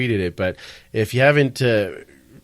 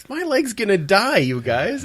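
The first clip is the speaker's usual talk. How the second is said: Shaun White; 9 semitones higher than usual. Retold or imitated. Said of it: "Shaun White's like".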